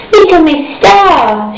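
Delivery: put-on high and slow, shy little girl. A narrator's reading. Miss Star answers the air hostess, high and shy. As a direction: say your name sweetly, a bit shy.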